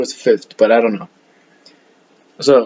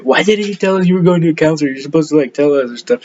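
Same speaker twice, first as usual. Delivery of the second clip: quick, higher scolding, half-playful; mock mad teacher; 3 semitones higher, faster than usual. Teacher scolding students for skipping to the counselor, mock annoyed. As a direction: imitate the teacher telling the kids off. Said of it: "so mad at us".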